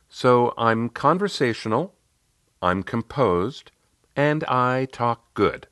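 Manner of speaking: slow list, a pause after each item; counting off. Retold or imitated. Client recapping her three strengths to coach, slowly counted off. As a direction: tick off each item deliberately. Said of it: "then counted on her fingers".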